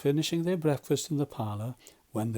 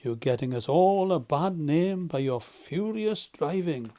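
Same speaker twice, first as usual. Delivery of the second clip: severe; 3 semitones higher, 4 dB louder than usual. Acted.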